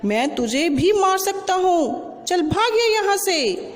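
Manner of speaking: a lightly voiced bully threatening the little one; bossy elephant. Elephant chases the ant away, mild hammed-up threat. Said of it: "हाथी बोला".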